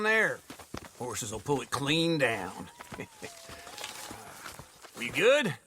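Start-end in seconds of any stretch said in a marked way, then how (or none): 2.7-3.3 short soft chuckle. Acted. Man pleased with his plan to pull it down, soft chuckle. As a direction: chuckle quietly to yourself. Chuckling after giving horse instructions.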